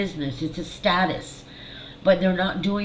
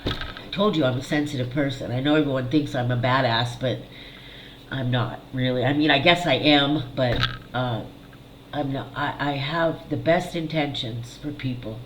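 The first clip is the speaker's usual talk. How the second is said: real upset in a lowered voice; emotional; 4 semitones lower than usual. Real, not acted. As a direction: confess it low, pausing to hold back the emotion. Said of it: "I'm getting emotional about it".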